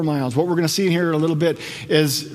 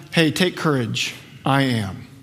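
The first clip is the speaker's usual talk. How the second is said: retold reassurance; 4 semitones lower, slower than usual. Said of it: "calling out to them".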